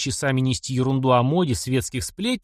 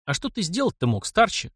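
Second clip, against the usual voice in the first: higher, mildly puzzled question; bewildered question; 7 semitones higher than usual. A narrator's reading. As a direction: ask with a touch of confusion. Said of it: "растерянно спросил Гриша".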